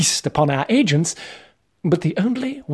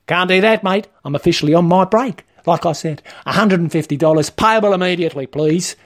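mildly insistent petty official; officious demand; 3 semitones higher than usual. Acted. Trainer on his break demanding the fine, mildly insistent. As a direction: insist on payment, matey but firm. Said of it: "demanded Wayne".

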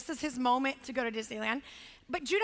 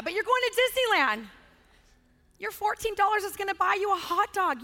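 firm insistent parent; 4 semitones higher than usual. Retold or imitated. Continues firm lecture to son.

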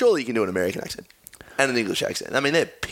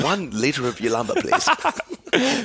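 mock posh order; 3 semitones higher, much slower than usual. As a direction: play the snob ordering wine.

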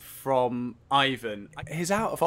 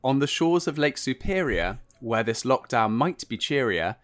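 poem reading. Retold or imitated. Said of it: "read out a poem".

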